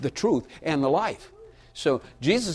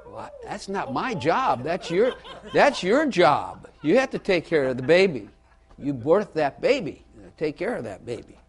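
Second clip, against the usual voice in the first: laughing mock wife; 3 semitones higher than usual. Wife refusing the baby, laughing and mock-whiny. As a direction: whine it through laughter like the wife. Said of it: "And she said".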